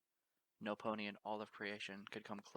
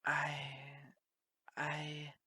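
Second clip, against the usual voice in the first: stammering; 6 semitones higher, 5 dB louder than usual. Acted. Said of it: "a stammering face".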